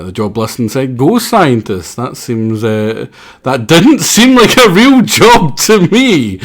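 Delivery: a hint of a clueless goof who laughs at himself; dumbass voice. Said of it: "How do you do a dumbass accent?".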